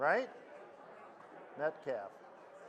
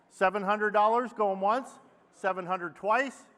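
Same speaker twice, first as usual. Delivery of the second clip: auctioneer; 2 semitones higher than usual. Acted. Auctioneer closing sale.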